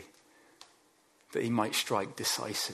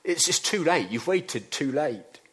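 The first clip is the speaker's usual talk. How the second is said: mock screaming urgency; 3 semitones higher, 4 dB louder than usual. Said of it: "our agendas are screaming out".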